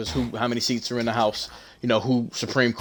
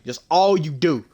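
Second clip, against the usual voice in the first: heated retort; 5 semitones higher, 4 dB louder, slower than usual. Retold or imitated. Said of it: "I'm explicit with it".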